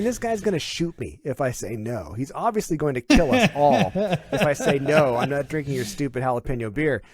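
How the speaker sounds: high, loud, laughing panic; half-joking fear of being shot; panicked inner voice. Retold or imitated. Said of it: "I'm thinking".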